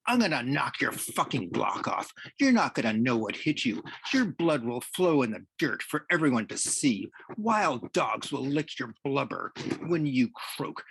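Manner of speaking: heated tirade, a little held back; enraged threats. Acted. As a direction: threaten him with mounting heat. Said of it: "Rage mastered him".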